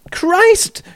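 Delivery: high furious snarl; growled warning. A narrator's reading. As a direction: spit it out in rage. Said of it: "snarled Terry".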